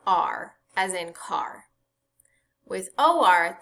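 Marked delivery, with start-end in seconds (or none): 0.1-0.5 "R" said as one drawn-out "ar" sound; r-controlled vowel sound. Shown as a demonstration. Teacher demonstrates the sound of A R, r-controlled vowel. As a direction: say "R" as the "ar" in car. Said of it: "the sound is".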